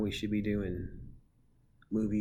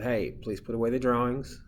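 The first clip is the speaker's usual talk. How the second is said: raised classroom voice; louder, firm but polite teacher call; teacher correcting; 7 dB louder than usual. Acted. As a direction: call a student back to work.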